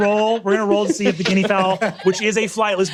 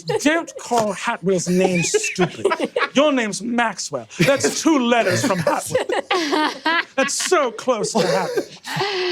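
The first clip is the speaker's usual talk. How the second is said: father voice; 4 semitones higher, slower than usual. Acted. Father scolding sons in game.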